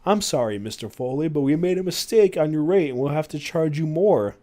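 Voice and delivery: lightly put-on British hotel manager; British accent. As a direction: apologise with a touch of British accent. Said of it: "with a British accent".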